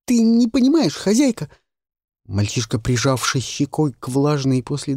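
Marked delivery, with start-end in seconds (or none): 0.1-1.5 put-on high, loud boyish protest; boy arguing with his mistress. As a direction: cry out as a desperate boy.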